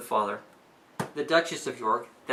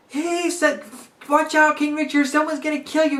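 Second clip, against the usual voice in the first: much higher, louder, frantic warning; frantic father; 11 semitones higher, 4 dB louder than usual. Retold or imitated. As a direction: burst in panicked to warn the king. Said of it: "his dad shows up and he says".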